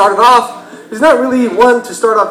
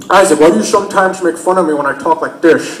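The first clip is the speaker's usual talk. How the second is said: mock slushy sh speech, lower; brother's slurred S; 4 semitones lower than usual. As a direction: imitate brother, every S as sh. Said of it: "the way he says his S's".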